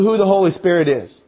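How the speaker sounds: who stressed and falling. Shown as a demonstration. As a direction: lean on the word who, not what. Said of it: "I'm gonna emphasize the word who".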